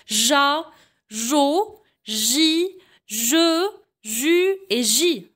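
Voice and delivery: chaque syllabe en « j » détachée avec soin; syllabes articulées. Shown as a demonstration. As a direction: montre la syllabe, puis une pause. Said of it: "Je répète". (syllabes en « j » dictées au professeur)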